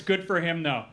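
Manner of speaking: lightly put-on Wisconsin accent. Shown as a demonstration. Comedian showing how to end a sentence, Wisconsin accent. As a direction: sign off like a Wisconsin local. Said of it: "say anything in a Wisconsin accent".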